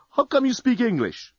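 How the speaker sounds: high astonished question; puzzled. Acted. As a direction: ask in disbelief. Dan puzzled.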